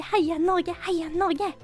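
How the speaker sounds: ordinary delivery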